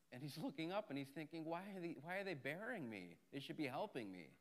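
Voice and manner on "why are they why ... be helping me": softly voiced hurt puzzlement; puzzled donkey. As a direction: softly wonder why, as the confused donkey. Puzzled donkey thinks to himself.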